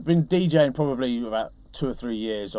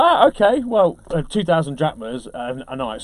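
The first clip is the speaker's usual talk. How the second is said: surprised okay; 2 semitones higher, 5 dB louder than usual. Retold or imitated. Retold own surprised reply.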